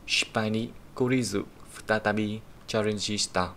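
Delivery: slow model sentence reading; reading example sentence. Shown as a demonstration. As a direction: read the sentence slowly for learners. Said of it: "reads example sentence aloud".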